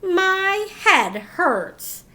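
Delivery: slow, drawn-out pained moan; sleepy, sore little groan. A narrator's reading. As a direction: drag the words out like your head aches. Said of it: "she moaned".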